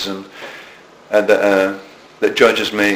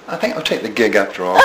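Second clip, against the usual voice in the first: laughing punchline; 3 semitones lower, faster than usual. Retold or imitated.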